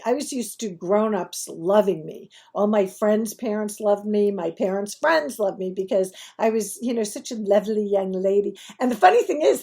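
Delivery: usual speaking voice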